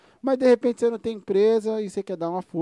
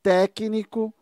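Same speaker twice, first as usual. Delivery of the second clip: grand announcement; 4 semitones higher, 5 dB louder, much slower than usual. Real, not acted. Announcing the guest's title.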